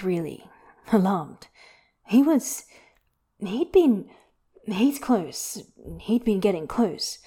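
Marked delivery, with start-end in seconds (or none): none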